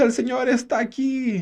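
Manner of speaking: imitating the visionary's fervour; effusive visionary proclaiming. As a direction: declare it again as if in rapture. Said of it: "lo dijo de una forma tan, eh, efusiva".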